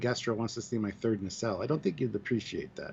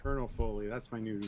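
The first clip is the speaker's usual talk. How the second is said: Colonel Sanders voice; 4 dB quieter than usual. Acted. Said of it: "using the Colonel Sanders voice".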